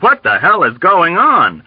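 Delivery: high, agitated plea; scared, bewildered outcry; frantic pleading. A narrator's reading. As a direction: demand an answer in alarm. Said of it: "Hungry Joe pleaded".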